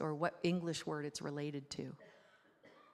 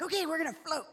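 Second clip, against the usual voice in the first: imitating an eager child, high and louder; high, loud mock-child enthusiasm; excited kid; 11 semitones higher, 5 dB louder, faster than usual. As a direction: play a thrilled little boy. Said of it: "he's all excited".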